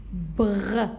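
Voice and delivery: "Br" with a long rolled-out R; blended consonants. Shown as a demonstration. Teacher showing children how to read it, blended consonants. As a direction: draw out the R of "Br" into a short schwa. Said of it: "regardez comment je vais lire".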